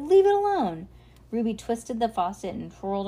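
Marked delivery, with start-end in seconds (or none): 0.0-0.9 high, loud angry order; shouting. A narrator's reading. Trevor orders Ruby off his fire, high loud shout. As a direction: shout them away from it. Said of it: "Trevor shouted".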